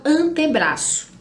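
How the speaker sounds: "antebraço" with a clear TE, not chi; marked E. Shown as a demonstration. Teacher shows antebraço with a well-marked E. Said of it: "com um ezinho bem marcado".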